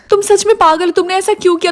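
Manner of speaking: upset scolding. Acted. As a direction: scold the daughter in dismay. Mother upset at daughter's choice. (परेशान होकर ऊँची आवाज़ में डाँटते हुए)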